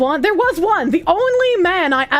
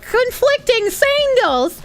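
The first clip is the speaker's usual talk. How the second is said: mocking commenter; 5 semitones higher than usual. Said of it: "he was just like".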